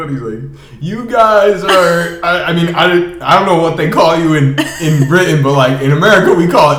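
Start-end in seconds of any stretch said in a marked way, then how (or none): 0.8-3.8 slow and drawn out, holding in a laugh; slow, stifled laugh. Retold or imitated. Theo starts answering the British hosts, slow and stifled. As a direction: stretch it out as the laugh builds. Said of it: "he's, like, laughing still".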